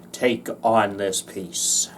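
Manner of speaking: low unvoiced whisper. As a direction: drop to a whisper. Whispered aside.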